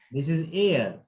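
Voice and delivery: "air" said with an open "eh" vowel, not "ear"; correct air. Shown as a demonstration. Teacher correcting "ear" to "air" for the student. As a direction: stretch "air" as "eh-r". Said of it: "Not ear, air".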